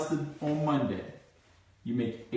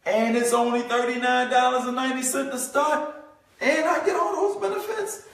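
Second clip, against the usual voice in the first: thrilled prospect; 7 semitones higher than usual. Retold or imitated.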